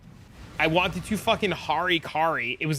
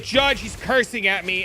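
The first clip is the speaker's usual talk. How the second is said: high, loud call for the judge; mock tattling; 4 semitones higher, 3 dB louder than usual. Opponent complains to the judge about cursing, mock tattling. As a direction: imitate an aggrieved opponent calling for help.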